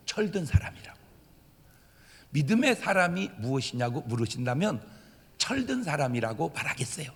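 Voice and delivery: soft, near-whispered answer; hushed. Real, not acted. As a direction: drop it almost to a whisper. Softly gives the answer.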